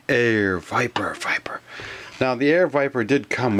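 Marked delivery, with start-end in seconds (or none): 0.1-1.6 mock echo. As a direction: stretch the name, then echo it breathily. Name repeated like the intro echo.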